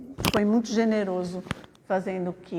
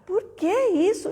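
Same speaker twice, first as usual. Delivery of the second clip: higher-pitched, exasperated teacher's scolding; a retold cross teacher's rebuke, higher; 10 semitones higher, 3 dB louder than usual. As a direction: scold the boy over his ruined notebook. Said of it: "eu fiquei brava".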